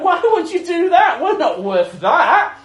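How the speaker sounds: high pleading protest; pleading disciples. Retold or imitated. Disciples pleading with their friend, high protest. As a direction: beg him not to, voice jumping up. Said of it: "We'd be like".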